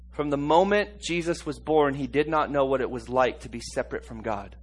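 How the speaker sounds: ordinary talk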